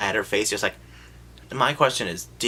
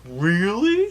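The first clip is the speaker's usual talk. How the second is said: high, loud, eager "Really?"; mock eager friends; 10 semitones higher, 6 dB louder than usual. Friends hearing about girls in Nilbog, eagerly. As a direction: perk up at the word girls. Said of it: "They're all like".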